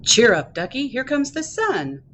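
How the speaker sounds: encouraging lilt with a punched opening; cheering-up picture-book reading. Acted. Dad duck cheering up sad duckling, encouraging read-aloud. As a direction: lift the mood for a little listener.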